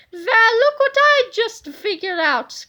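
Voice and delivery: high, loud, slow gloat; gloating discovery. Acted. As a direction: savor the villain's discovery. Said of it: "cried Big Tippy".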